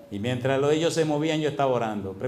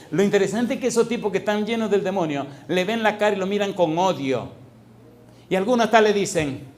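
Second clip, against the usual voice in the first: loud preaching; 6 semitones higher, 4 dB louder than usual. Real, not acted.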